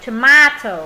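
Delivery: "Tomato" as tuh-MAH-toh; long A. Shown as a demonstration. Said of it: "Cái âm này có hai cách đọc".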